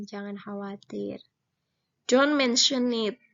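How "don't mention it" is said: clear, emphatic model phrase; teacher modelling an English phrase; model reading aloud. Shown as a demonstration. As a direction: say it out for the class to repeat. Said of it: "Kemudian responnya kita baca bareng-bareng".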